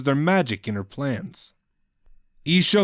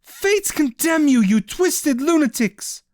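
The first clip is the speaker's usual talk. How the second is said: higher, slow, mildly hammed-up curse; hissed curse; 3 dB louder, slower than usual. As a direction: spit the curse slowly. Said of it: "Ishel hissed".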